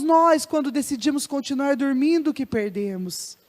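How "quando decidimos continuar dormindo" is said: ordinary delivery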